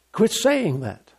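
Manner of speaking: Quit saying that, drawn out slowly word by word; slow it right down and lean on "saying"; a deliberate, measured correction; slow, firm rebuke. Shown as a demonstration.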